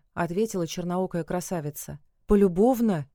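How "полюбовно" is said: loud, incredulous one-word question; can't believe what he hears; surprised. A narrator's reading. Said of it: "удивился Велес". (громкое недоумение)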